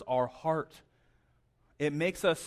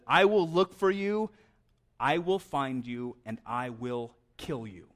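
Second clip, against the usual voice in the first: Liam Neeson impression. Preacher imitating the hero's famous phone threat, slow and sinking. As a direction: draw it out like a calm threat down the phone. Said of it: "in a Liam Neeson voice".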